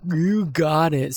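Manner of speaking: slow words stretched by a yawn. Real, not acted. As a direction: talk through a yawn. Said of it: "Sorry, I was yawning".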